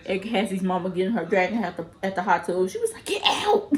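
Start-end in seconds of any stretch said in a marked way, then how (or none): 3.1-3.7 whispered mock command. Mama pulling her out.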